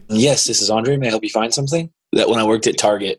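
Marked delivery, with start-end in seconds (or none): 0.1-1.9 perky store clerk, rising pitch; customer service voice. Retold or imitated. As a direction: chirp it like a helpful shop clerk. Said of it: "your customer service voice when you answer the phone".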